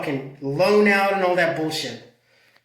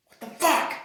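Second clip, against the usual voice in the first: surprised; 10 semitones higher than usual. Real, not acted. Shock at Alaska prices.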